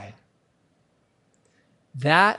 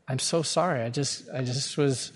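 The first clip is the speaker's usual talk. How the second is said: softly retold apology; subdued, quiet admission to his wife; low and slow; 3 semitones lower, 6 dB quieter than usual. Husband admitting he was short, low and slow. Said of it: "speaking more low and slow".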